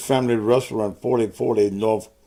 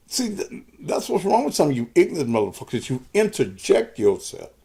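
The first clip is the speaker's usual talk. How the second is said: angry rant; 4 semitones higher than usual. Real, not acted. Raging at an ignorant commenter.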